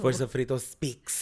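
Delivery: announcer drawing out the show name; dramatic announcer voice. Pretend. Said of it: "Why you say it like that?".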